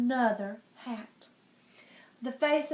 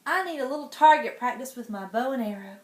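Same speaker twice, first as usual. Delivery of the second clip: put-on bratty child duke; 6 dB louder, faster than usual. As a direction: sneer it like a spoiled boy duke.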